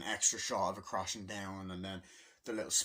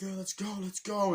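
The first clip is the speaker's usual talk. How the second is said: high Koopa cheer; 9 semitones higher, 4 dB louder than usual. Retold or imitated. Koopas gathering, retold.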